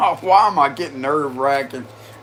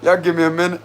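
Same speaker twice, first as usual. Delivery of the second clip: laughing. Real, not acted. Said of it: "I'm trying not to laugh that much".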